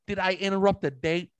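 high, mocking sarcasm to a silent stranger; sarcastic mockery. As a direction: tease him about an invisible girlfriend. Mocking the silent stranger in his retelling.

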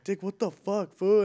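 mock confrontation; retold angry retort. Quoting himself confronting thief.

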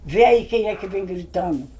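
loud call across the yard. Retold or imitated. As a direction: call the daughter from inside the house. Grandmother calls out to Joana.

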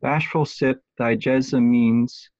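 slow, even syllables through "jessamines"; measured recount of the line's beats; counting out syllables. Shown as a demonstration. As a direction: sound out "Bashful sip thy jessamines" bit by bit. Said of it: "depending on how you wanna pronounce that".

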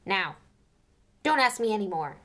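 loud gruff warning. Acted. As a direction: shut them down gruffly. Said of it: "said Hagrid gruffly".

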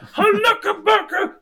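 shouted special move. Retold or imitated. Retelling fight move shout.

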